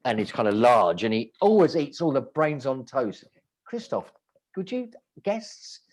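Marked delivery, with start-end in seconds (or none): 3.7-5.8 hushed aside. Retold or imitated. Hushed aside to the big guest.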